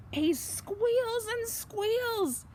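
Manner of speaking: high, slow squeaky voice; squealing. A narrator's reading. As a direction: stretch it out like a squealing pig. Pig stuck in fence.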